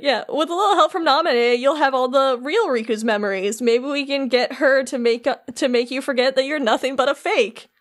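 mildly patronizing, sweetly explaining villain; condescending. Retold or imitated. Larxene explaining to Replica Riku his heart remake, condescending. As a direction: talk down to him as if to a baby. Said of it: "Talking down to him like he's a baby".

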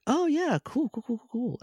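high, breezy cool cool cool; Mac's airy brush-off. Retold or imitated. Recapping Mac's blasé reply to the Misers, high and breezy. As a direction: toss it off like a bored teen.

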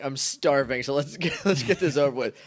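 talking with a mouthful; words through hurried bites of food; wolfing down food. Real, not acted. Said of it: "Excuse me. I'm sorry I'm disgusting".

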